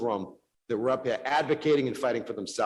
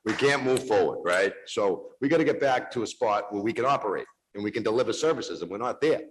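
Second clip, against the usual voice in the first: heated rebuttal; 4 dB louder than usual. Real, not acted. Heated rebuttal in council debate.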